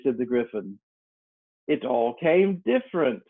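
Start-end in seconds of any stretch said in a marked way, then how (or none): 1.7-3.2 thoughtful. Acted. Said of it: "repeated thoughtfully".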